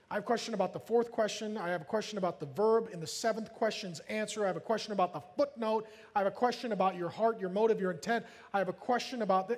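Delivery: quick, droning list of questions; mock pedantic church member; nitpicking questioner. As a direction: rattle off petty queries without letup. Mimics members' endless nitpicking questions.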